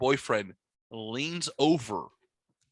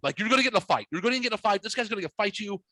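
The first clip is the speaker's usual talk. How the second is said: mock yell; 8 semitones higher, faster than usual. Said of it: "she's trying to protect me by yelling at me".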